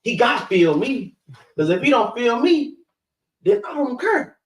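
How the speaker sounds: lightly played sister getting worked up, pitch climbing; mock sister venting. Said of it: "Sisters got that real".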